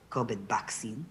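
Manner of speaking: covid vaccine said as "kobid baksin" with a b, lightly accented; Filipino accent. Shown as a demonstration. Showing how the meme says it in a Filipino accent. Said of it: "this is how it was said".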